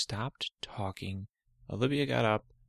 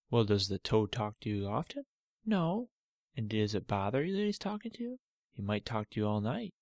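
dad calming his daughter. Acted. Father calming Olivia about her cut toe, gentle. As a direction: gently reassure the hurt girl.

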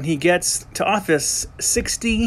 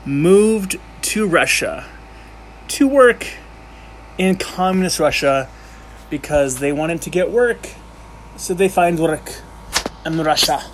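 bad Russian accent. Student telling of Americans in Russia, mock Russian accent. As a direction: ham up a clumsy Russian accent. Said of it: "that is a horrible accent".

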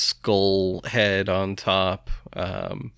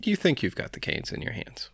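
soft unvoiced whisper, faster; 8 semitones higher, 6 dB quieter, faster than usual. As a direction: whisper the illusion to him. GM sets dreamy scene.

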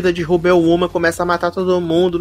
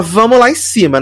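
not discreet at all; 4 semitones higher than usual. Retold or imitated. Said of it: "Nada discreta".

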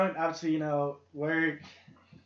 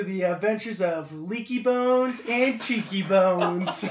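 mock storyteller announcement; 2 semitones higher, 5 dB louder than usual. Grandly introducing his weekend story.

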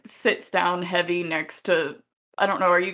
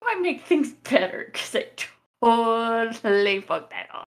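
higher-pitched worried self-talk; fretting inner monologue; 5 semitones higher than usual. Acted. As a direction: puzzle over your own blunder, pitched up. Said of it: "trying to figure out in her head".

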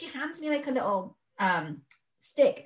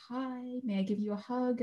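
calm midwife; 4 semitones higher, 5 dB quieter than usual. Retold or imitated. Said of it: "peaceful and calm".

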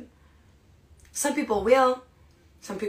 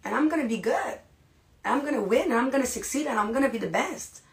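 higher, rising self-pep; imitating a pumped-up newbie, higher pitched; pumped-up self-talk; 4 semitones higher than usual. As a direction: hype yourself up line by line. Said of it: "in their head, they're like".

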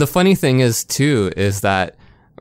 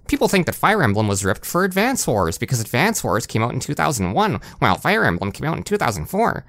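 higher, nasal nerdy reviewer voice; nasally nerd voice; 3 semitones higher than usual. Retold or imitated. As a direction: read it like a whiny nerd. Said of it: "I can do the nasally nerd voice here".

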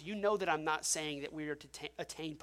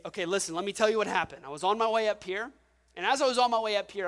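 out of breath; 6 dB louder, faster than usual. Retold or imitated. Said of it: "I'm out of breath".

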